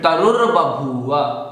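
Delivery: तरुर्बभूव with a distinct र् after रु; clear r sound. Shown as a demonstration. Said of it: "रु के बाद फिर रकार बोलना है". (तरुर्बभूव में रु के बाद रकार स्पष्ट)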